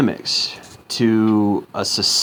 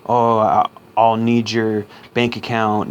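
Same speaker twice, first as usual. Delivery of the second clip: mock scammer voice; slower than usual. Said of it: "she gave me some scam".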